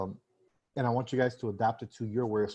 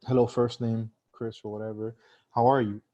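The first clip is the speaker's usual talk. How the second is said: clear greeting; 6 dB louder than usual. Shown as a demonstration. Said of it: "I let people speak".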